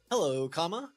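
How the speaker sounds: saying the comma aloud as a word; spoken punctuation. Shown as a demonstration. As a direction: read out "Hello, comma." pronouncing comma. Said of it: "It's A I".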